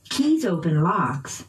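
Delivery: "keys" and "locks" stressed by pitch; noun stress. Shown as a demonstration. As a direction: lift "keys" and "locks", dip on "open". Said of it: "using pitch change".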